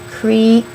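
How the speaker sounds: Creature split with a crisp T sound. Shown as a demonstration. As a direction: say Creature as "creet", pause, "cher". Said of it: "I think I heard the T sound there".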